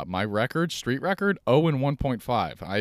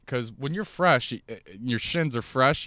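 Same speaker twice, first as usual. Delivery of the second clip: Joe Rogan; 3 semitones higher than usual. Pretend. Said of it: "I sound like fucking Joe Rogan right now".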